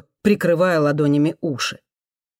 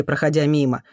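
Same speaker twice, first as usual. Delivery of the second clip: ordinary delivery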